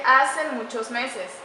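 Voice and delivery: slow, deliberate reading of the faulty "hace muchos meses"; wrong example read out. Shown as a demonstration. Teacher reading a faulty example to students, slow and deliberate. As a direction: read the wrong phrase slowly for the class. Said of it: "tampoco tiene concordancia".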